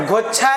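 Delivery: गुच्छा said as "ghochha", o for u; mispronounced word. Shown as a demonstration. Teacher rejects the students' form, गुच्छा mispronounced as "ghochha". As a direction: give गुच्छा the mistaken o vowel, "ghochha". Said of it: "गुच्छा नहीं".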